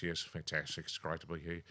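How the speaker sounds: lightly voiced politician; a hint of an upbeat premier; Steve Brax impression. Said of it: "Ring up as Steve Brax".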